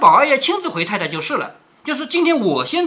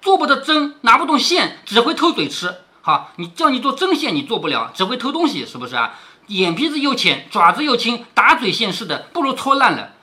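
angry scolding; 2 semitones higher than usual. Acted. Qingwen jabbing Zhui'er's hand, cursing angrily. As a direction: curse the thieving maid's hands. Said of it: "口内骂着说".

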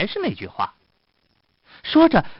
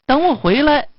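high, louder, teasing call; taunting musician; 7 semitones higher, 4 dB louder than usual. Acted. Musician leaves the tied fox waiting, taunting. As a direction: call it up high and pleased with the trick.

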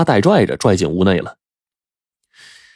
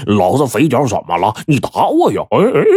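crazed laugh; 2 semitones higher than usual. A narrator's reading. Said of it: "肥仔就哈哈大笑说".

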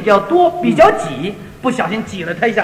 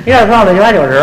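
Beijing counting; 4 semitones lower, 6 dB louder, faster than usual. Shown as a demonstration. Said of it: "你学学".

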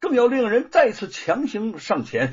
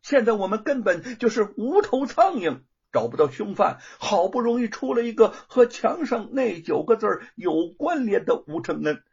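louder, high angry scolding; 4 semitones higher, 3 dB louder than usual. Acted. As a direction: scold the foolish servant. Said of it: "范谷骂道".

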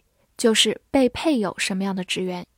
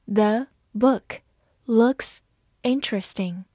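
slow reading; slower than usual. Shown as a demonstration. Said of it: "好，慢慢来读。".

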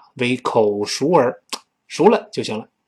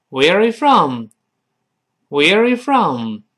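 repeated slowly, falling at end; slow drill; 2 semitones higher, much slower than usual. Shown as a demonstration. Teacher drilling students, slow repeat. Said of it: "repeated drill".

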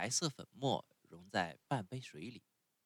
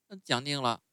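put-on much higher, whiny little boy; puppet boy voice; 5 semitones higher, 6 dB louder than usual. A narrator's reading. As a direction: sulk like a spoiled child refusing medicine. Pinocchio voiced in story.

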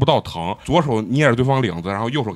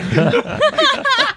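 much higher squealing laugh. Real, not acted. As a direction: crack up mid-sentence, high. Laughing at bench fight. (尖声大笑)

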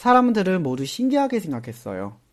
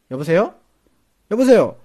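calling out down a bad line, rising then louder; 소리치기 흉내; 3 semitones higher, 7 dB louder than usual. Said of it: "소리를 질렀어요". (전화기에 대고 점점 크게 외치는 소리)

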